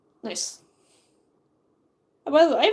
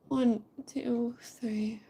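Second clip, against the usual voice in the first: whispering; 9 dB quieter, much slower than usual. Real, not acted. Counting pages under breath.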